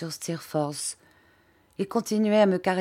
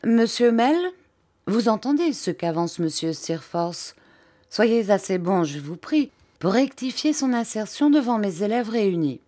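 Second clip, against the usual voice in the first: strained politeness; 5 semitones higher than usual. Acted. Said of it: "d'un air de politesse contrainte".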